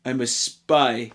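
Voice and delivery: low, slow hammed-up Russian accent; mock Russian accent. Film reviewer mocking the spies' obviousness, in a fake Russian accent. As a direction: put on a crummy Russian accent. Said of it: "I'm a Russian spy".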